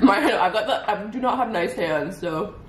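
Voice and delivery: talking through a mouthful of food; chewing while speaking; mouth full. Real, not acted. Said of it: "sorry for talking with my mouth full of food".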